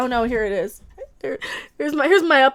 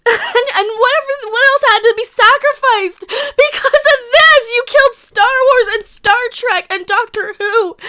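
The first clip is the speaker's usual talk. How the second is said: raised, high-pitched, upset accusation; worked-up rant; 5 semitones higher, 4 dB louder than usual. Real, not acted. Fan blaming studios for killing franchises, upset rant. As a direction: accuse them, voice climbing with emotion. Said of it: "in the middle of a, a little bit of a rant".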